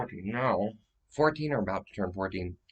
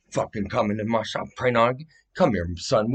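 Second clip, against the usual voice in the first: mock tough shop owner, raised voice; acted confrontation; 3 semitones higher, 5 dB louder than usual. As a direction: square up to an intruder, loud.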